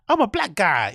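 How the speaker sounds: lightly mocked Black American inflection; hacky stereotyped inflection.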